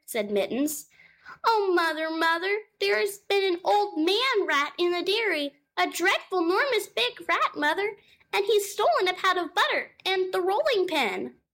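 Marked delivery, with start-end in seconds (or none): 1.4-11.4 high, small kitten voice calling out; a scared little kitten crying for mum; frightened kitten. Acted. Kitten Moppet calling to her mother, high and frightened. Mittens reports the rat.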